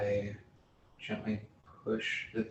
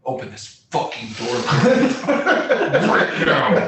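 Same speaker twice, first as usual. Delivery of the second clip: stage whisper; 4 semitones higher, 12 dB louder than usual. Acted. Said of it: "stage whisper".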